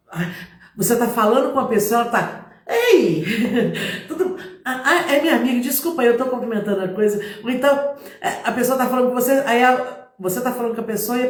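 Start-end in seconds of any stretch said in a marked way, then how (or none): 2.7-7.2 distracted greeting.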